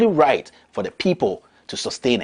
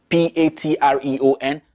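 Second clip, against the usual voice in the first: spelled out; 2 semitones higher than usual. Shown as a demonstration. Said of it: "remember, it's Patreon".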